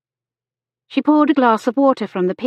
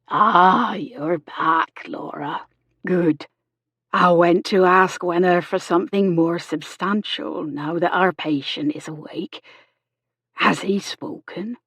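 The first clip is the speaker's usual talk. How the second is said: Miss Chegwin, friendly neighbour nurse. A narrator's reading. Miss Chegwin greets Laura back at the patient's bed, friendly. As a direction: play the kindly, plain-spoken nurse.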